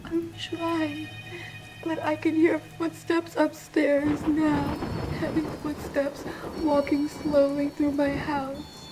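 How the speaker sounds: slow, halting, frightened speech; barely daring to speak as you listen; hushed dread. Acted. Trapped caller hears footsteps upstairs in her house, hushed dread.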